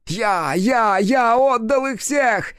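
very high, slow, strained fury; a piercing, enraged demon outburst; demon exploding. A narrator's reading. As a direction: burst out completely. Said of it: "просто взорвался он".

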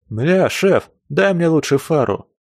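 высокий, громкий возмущённый голос; возмущайся, выпрашивая другого напарника; возмущённо. Acted. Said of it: "возмутился кривоногий азиат". (возмущённо)

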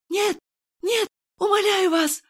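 high, loud desperate plea; terrified cry. A narrator's reading. Nurse begging Kirill, high terrified scream. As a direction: scream through a hand over the mouth. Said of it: "вырвалось из-под моей ладони".

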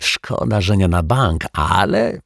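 high, eager announcement; keyed-up young sleuth; excited boy. A narrator's reading. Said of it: "krzyknął podekscytowany Dominik".

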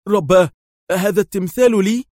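high, loud startled exclamation; amazed exclaim. A narrator's reading. Yael sees the statue of himself, exclaiming amazed. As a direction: blurt it out in astonishment. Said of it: "قبل أن يهتف في دهشة".

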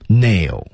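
"nail" given full weight; "nail" said as the key stressed word. Shown as a demonstration. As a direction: lean firmly on the word "nail". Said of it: "nail重读".

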